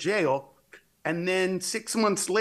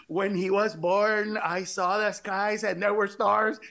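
proud mother; 3 semitones higher, slower than usual. Retold or imitated. Mother's dreamy boast.

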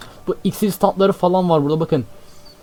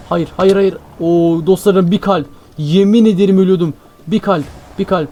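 frantic relief; 5 dB louder than usual. Real, not acted. Nearly dying, finds a heart.

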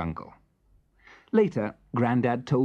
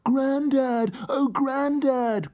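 high, loud, relieved cry; cried out; 3 dB louder, much slower than usual. Acted. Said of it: "cried Melba".

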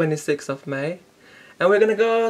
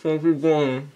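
cheeks stuffed full; 4 semitones lower, 4 dB quieter than usual. Real, not acted. Marshmallows stuffed in mouth.

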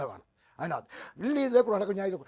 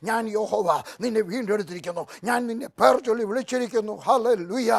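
louder rising proclamation; fiery preaching; 6 dB louder than usual. Acted. Preacher proclaiming the verse to the congregation, building loud. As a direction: build to a ringing climax.

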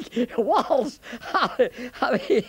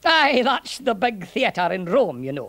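lightly lilting Scots soldier; a Scots burr, unhurried at first; Scottish centurion, explaining. Acted. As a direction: explain helpfully in a Scottish accent.

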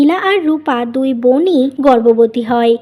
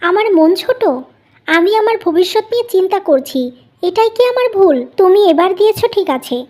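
raised, higher, indignant voice; angry retort; 5 semitones higher than usual. Acted. Wife snapping back at husband about wasted money, angry and raised. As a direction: bristle back at him, offended and defensive.

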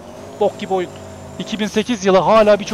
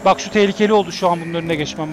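usual speaking voice

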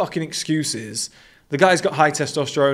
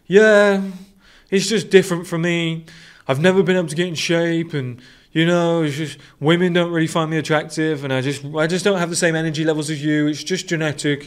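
whiny excuse-maker; 3 semitones higher than usual. Retold or imitated. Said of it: "and he's like".

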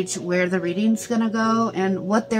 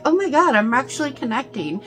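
excited; 5 semitones higher, faster than usual. Retold or imitated. Imagined student's thrilled realization.

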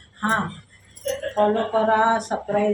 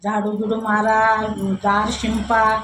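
mother-in-law calling out; slower than usual. Retold or imitated. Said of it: "असं सासू ओरडायला लागली".

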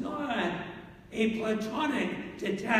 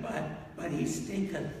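mock objecting sister; 5 semitones lower, 5 dB quieter than usual. Lazarus's sisters object to opening tomb.

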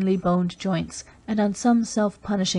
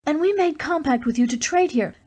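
Dalisa's proud outburst; 8 semitones higher than usual. A narrator's reading. Dalisa defending the Dry Towns to Race, fierce and proud. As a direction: push the pride and fury of an old people.

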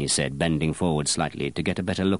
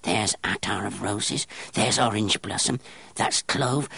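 strange crowing gnome; 4 semitones higher than usual. Acted. Apprentice naming scents in the dark room to the perfumer, crowing. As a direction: point them out one by one, gleeful.

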